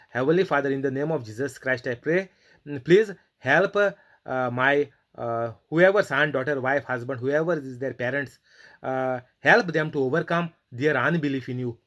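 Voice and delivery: prayer. Shown as a demonstration. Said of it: "then you can pray to God".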